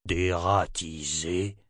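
slow, rising disbelieving question; slow, puzzled repetition of "Dératiser?"; puzzled echo. Acted. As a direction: repeat the strange word, baffled. Nathan repeats, puzzled.

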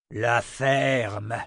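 sharp shout, not her own voice; shouted command. Acted. Armina silencing Julia with a shout. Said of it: "cria Armina".

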